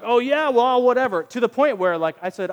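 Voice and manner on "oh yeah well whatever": loud, high mocking brush-off; dismissive scoff. Retelling the angry man's brush-off, loud scoff. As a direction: toss it off like a sneering tough guy. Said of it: "he kept wanting me to be like".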